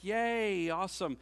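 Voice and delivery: a hollow little yay, not meant; sarcastic yay. Retold or imitated. Pastor mocking his class's reunion idea, with sarcastic cheer. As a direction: fake cheer, high on yay. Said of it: "I was like".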